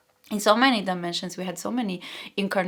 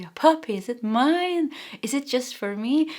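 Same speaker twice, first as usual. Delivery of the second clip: put-on higher, delighted kid getting a puppy; excited child; 4 semitones higher than usual. Child who gets a puppy, lightly voiced delight. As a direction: lightly play a thrilled little kid. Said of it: "you become like that child that gets a puppy".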